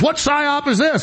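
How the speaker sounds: high, slow incredulous question; mock suspicious boss. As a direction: play the boss who smells a trick. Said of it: "He goes".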